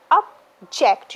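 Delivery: "object" split, with weight on the second syllable ject; ob, pause, JECT for "object"; stress on JECT. Shown as a demonstration. Teacher showing verb stress, second syllable stressed. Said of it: "you will mark stress on the ject".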